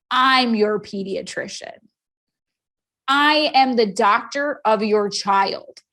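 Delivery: slow, measured declaration of authority; firm doctor. Retold or imitated. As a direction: lay it down slowly, imitating a stern doctor. Doctor asserting his authority.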